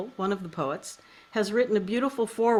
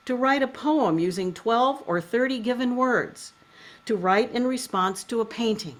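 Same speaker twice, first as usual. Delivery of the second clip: measured, literary reading with pauses between phrases; foreword read aloud. Acted. Host reads a poet's foreword to listeners, measured literary reading.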